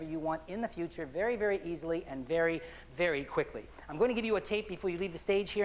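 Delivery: measured, deliberate hypnotist voice; hypnotic suggestion. Acted. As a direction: plant the suggestion firmly.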